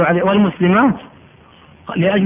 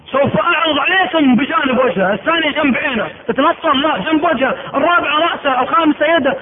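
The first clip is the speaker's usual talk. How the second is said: tyrant king; 6 semitones higher than usual. Acted. Caesar orders the sniper.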